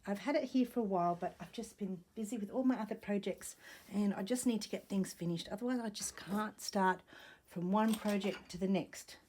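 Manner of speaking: fast and short of breath; rushing, catching breath. Real, not acted. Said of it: "I couldn't catch my breath".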